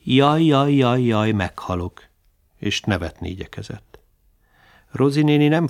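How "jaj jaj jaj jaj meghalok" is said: hammed-up groaning, fading to a sigh; tréfás öregasszonyos jajgatás. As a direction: whine like a creaky old woman, half joking. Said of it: "akár egy öregasszony".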